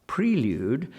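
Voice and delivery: "Prelude" as PREE-lude; clearly articulated PREE in "Prelude"; long-E prelude. Retold or imitated. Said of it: "he says very, very clearly".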